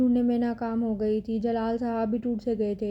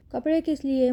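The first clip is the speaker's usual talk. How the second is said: flaring up; 2 semitones higher than usual. Acted. Captive girl flares up at her kidnapper. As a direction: snap back the question lightly. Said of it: "بھڑک کے پوچھا".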